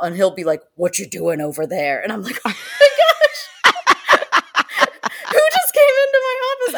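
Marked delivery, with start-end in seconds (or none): 0.8-2.0 imitating a parrot's deep voice. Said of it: "deep voice every once in a while". 2.4-6.7 high, laughing startled cry. Retold or imitated. Startled by parrot's deep voice.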